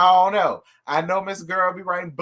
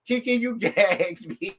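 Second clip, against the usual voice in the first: laughing; 3 semitones higher than usual. Real, not acted. Host tells the guest she's floored, laughing through the words.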